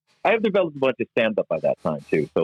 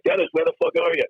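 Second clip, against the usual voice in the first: imitated George Carlin; 9 semitones higher than usual. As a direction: replay a comic's shout from the doorway. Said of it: "I hear him just yelling".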